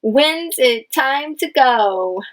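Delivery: slow, clear question; drawn-out asking. Shown as a demonstration. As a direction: read it slowly as a question. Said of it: "it is a question".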